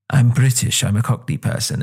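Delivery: lightly mocked Cockney accent; Christian Bale. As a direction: put on a touch of try-hard Cockney. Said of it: "he's just trying to appear like".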